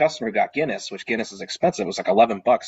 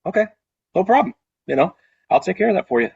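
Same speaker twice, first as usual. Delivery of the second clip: cheerful agreement; 8 semitones higher, 4 dB louder, faster than usual. Retold or imitated.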